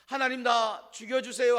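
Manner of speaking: loud, whining plea to God; Elijah's pleading tantrum. Acted. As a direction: beg like a worn-out prophet throwing a fit. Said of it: "하면서 하나님 앞에 떼쓰는".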